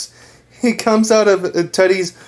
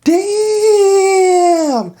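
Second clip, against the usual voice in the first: high, laughing "Damn!"; impressed exclaim; 11 semitones higher, 3 dB louder than usual. Retold or imitated. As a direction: burst it out, laughing and amazed. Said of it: "He's like".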